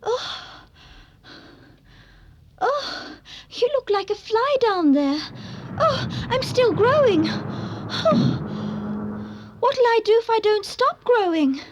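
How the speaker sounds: rising panic while growing; alarmed. Acted. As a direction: gasp out the alarm, pitch climbing. Alice growing to giant size.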